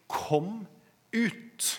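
high-pitched call, word by word; retold call. Preacher quotes Jesus calling to the dead, high retold call. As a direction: call it out high, with a break between words. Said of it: "men han roper".

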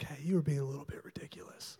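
hushed, whispered gentle rebuke. Retold or imitated. Holy Spirit nudging the preacher after a tantrum, gentle whisper. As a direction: whisper it like a nudge to the conscience. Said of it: "gently, the way that the Holy Spirit does".

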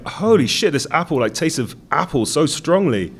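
high amazed exclamation; mock astonishment at a tasty apple. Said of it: "I'm like".

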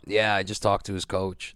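a barely changed, lightly voiced Mo; understated mimic of the organizer; hint of Mo's voice, mostly his own; impression of Mo. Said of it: "That's my impression of him".

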